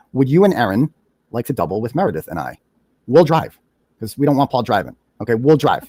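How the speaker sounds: ordinary talk, nothing marked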